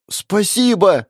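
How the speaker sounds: high excited thank-you; almost yell it, a kid bursting with thanks; high, loud child's cry of thanks; near shout. Acted. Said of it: "едва не прокричал он".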